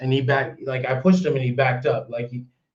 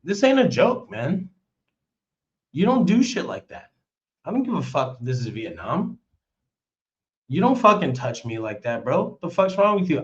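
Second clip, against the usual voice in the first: rising, heated scolding; mild retold fury; retold angry rant; 3 semitones higher than usual. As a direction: lay into him hard. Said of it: "I was like".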